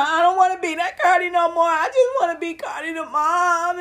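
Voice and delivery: half-teary imitated plea; a rapper crying. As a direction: mimic a tearful plea to be just a mom. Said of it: "Why she was crying".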